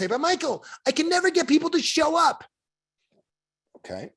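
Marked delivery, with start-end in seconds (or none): 0.1-2.4 higher-pitched objection voice; high, exasperated protest; complaining client. Retold or imitated.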